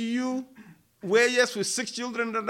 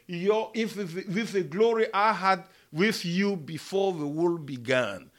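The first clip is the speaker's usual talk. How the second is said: earnest prayer; 3 dB louder than usual. Acted. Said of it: "he looked toward heaven and prayed".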